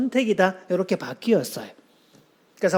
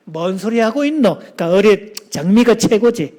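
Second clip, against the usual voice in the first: louder, dismissive retort; mock contrarian scoff; rude contradiction; 5 dB louder than usual. Shown as a demonstration. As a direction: shoot the other down. Rude contradiction in role-play.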